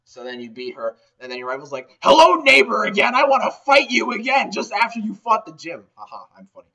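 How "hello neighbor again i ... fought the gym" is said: higher, louder, cheery pushy greeting; eager rival. Retold or imitated. Rival greeting the player after the gym, high and cheery. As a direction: pop up like an overeager neighbor.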